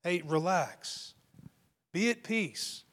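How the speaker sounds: slow, soft soothing words; calming reassurance. Retold or imitated. To someone freaking out, gently soothing. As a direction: ease a panicking friend into calm. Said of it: "I'll say things like".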